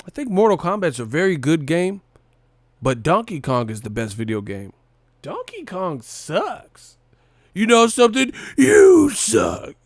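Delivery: high, loud movie voice; Billy Madison quote. Retold or imitated. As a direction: play the silly movie scene. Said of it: "Billy Madison ass shit".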